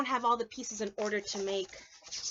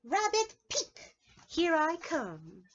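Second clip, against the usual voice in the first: high, slow triumphant bunny; proud king of the mountain; 8 semitones higher, 5 dB louder, much slower than usual. Pretend. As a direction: proclaim from the peak. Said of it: "He's like".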